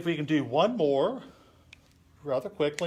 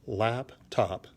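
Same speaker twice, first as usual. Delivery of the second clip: syllable by syllable; 3 semitones lower than usual. Shown as a demonstration. Teacher counts out the poem's first line, syllable by syllable. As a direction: split "laptop" into two separate beats, lap, top. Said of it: "listen to this".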